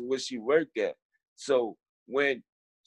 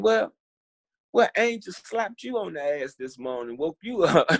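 lightly voiced nurse, surprised and teasing; 4 semitones higher than usual. Nurse to a suddenly willing patient, teasing. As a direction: tease the patient in mock amazement.

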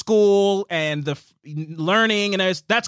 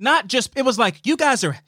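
mock self-righteous complaint, slightly raised pitch; sanctimonious imitation; 4 semitones higher than usual. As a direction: lightly imitate a disapproving prude.

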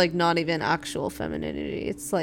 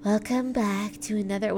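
mock podcast intro. Parody of a commercial podcast intro.

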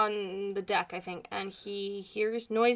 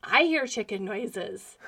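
slow, deadpan echo of the line; mom echoing; slower than usual. Retold or imitated. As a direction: repeat it slowly like a stunned mom. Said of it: "And she's like".

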